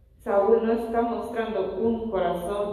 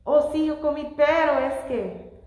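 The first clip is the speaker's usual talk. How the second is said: mock Eve excusing herself; 5 semitones higher, 4 dB louder than usual. Preacher voicing Eve's excuse to the church, higher and mocking. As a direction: play Eve shifting the blame, hammed up a bit. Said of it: "como Eva".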